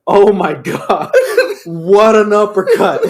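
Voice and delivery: imitating an announcer losing it, high and laughing; hammed-up awe, stretched out through laughter; Dusty. Imitating commentator's reaction to an uppercut, wildly excited. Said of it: "makes Dusty lose his shit".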